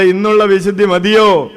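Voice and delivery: put-on projected question to the children; rallying question. Shown as a demonstration. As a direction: call it out for parents to hear. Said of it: "കേൾക്കാവുന്ന സ്വരത്തിൽ ഒന്ന് പറഞ്ഞേ".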